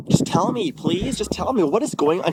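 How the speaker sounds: imploring, voice jumping up; retold pleading. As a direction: act out begging her for an answer. Retells pleading with his ex.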